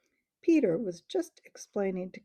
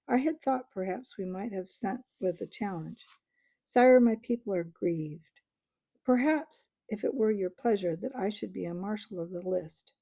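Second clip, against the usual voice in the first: proud mouse voice; 3 dB louder than usual. Acted. Reepicheep speaks.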